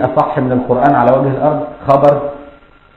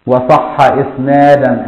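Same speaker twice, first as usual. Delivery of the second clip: verse recitation; 3 dB louder, much slower than usual. Shown as a demonstration. Recites poem verse slowly.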